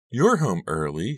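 slow, beaming greeting; with a big smile. Acted. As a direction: smile through the words. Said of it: "she said with a big smile".

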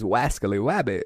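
"Wascally wabbit" with every R said as W; baby-talk W sound in "Wascally wabbit". Shown as a demonstration. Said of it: "They don't pronounce the R".

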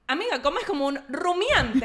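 laughing tease. Pretend. Telling friend she eats like ruminant.

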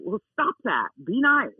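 mild firm correction to a dog. Shown as a demonstration. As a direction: tell the dog off, rising on the last words. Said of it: "you can raise your voice at a dog".

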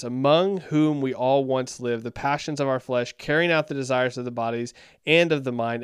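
emphatic Bible reading; scripture reading. Acted. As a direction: read the verse aloud with firm emphasis. Reads scripture aloud.

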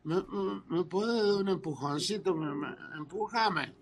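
put-on halting drunk stammer; drunk neighbour. Drunk neighbour asking again for a little push, stammering. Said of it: "borracho mal".

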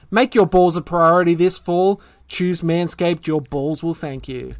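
promo code sign-off; scripted sponsor delivery; ad read. Acted. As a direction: read out the offer, easing down at the end. Reads sponsor copy and promo code.

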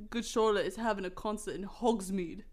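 lightly attempted British accent. Draco announcing a concert, British accent. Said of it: "I gotta be British".

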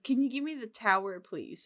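"tower" with an R sound replacing towel's L. Retold or imitated. Mom asking for a towel, mispronounced as "tower". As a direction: ask for a towel, pronouncing it "tower". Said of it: "she'd say".

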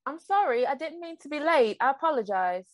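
lightly put-on British apology; British accent. Host apologizing for being late, British accent. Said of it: "that was my impression of a British accent".

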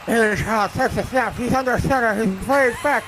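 Bernice Beaver. Acted. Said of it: "do the play-by-play as Bernice Beaver".

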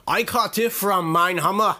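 attempted Australian accent. Shown as a demonstration. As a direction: try it in a not quite convincing Australian accent. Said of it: "say it with an Australian accent".

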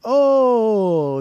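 high, loud, drawn-out "oh"; imitated sudden realisation. Husband recognising the record show caller, mock realisation. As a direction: let it slide down in mock dawning recognition.

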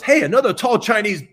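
sudden high, loud inner voice; high mock thought. Recalling his last thought before the mirror, high and loud. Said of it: "The last thought is".

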